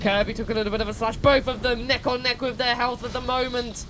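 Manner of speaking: lively play-by-play commentator; sports commentary. Acted. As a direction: call the fight like a sportscaster. Live play-by-play of the fight.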